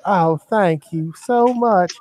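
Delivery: slow, lightly voiced sweet granny; grandmotherly old lady. Old lady thanking the bag boy, slow grandmotherly sweetness. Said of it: "this is just like the grandmotherly".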